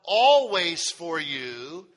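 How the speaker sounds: slow, measured Bible reading; solemn scripture reading. Acted. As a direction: read the verse out slowly, phrase by phrase. Reads scripture aloud to congregation.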